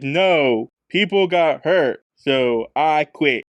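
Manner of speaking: lightly voiced, slow-paced impression; a hint of an impression, slow and weighty; Shaq. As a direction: draw the words out with deliberate pauses. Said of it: "is that your Shaq impression".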